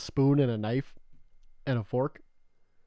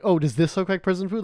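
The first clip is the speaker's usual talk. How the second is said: higher, louder mock-sarcastic quote; 6 semitones higher, 5 dB louder than usual. Friend getting back at him with a fancier dish, sarcastic. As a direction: imitate a friend's sarcastic comeback. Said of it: "Like, sarcastically".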